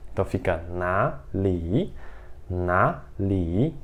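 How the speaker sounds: na li with the first syllable rising as second tone; tone sandhi. Shown as a demonstration. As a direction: lift na into a rising tone. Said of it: "vai pra segundo tom somente na leitura".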